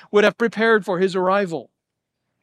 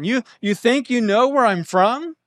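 rhetorical question; 4 semitones higher than usual. Shown as a demonstration. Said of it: "it would be a rhetorical question".

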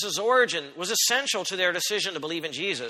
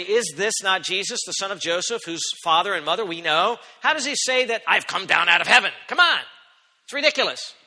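rising scornful disbelief, louder toward the end; scoffing crowd; 4 dB louder than usual. Acted. Crowd mocking Jesus's heavenly claim, scornful rising disbelief.

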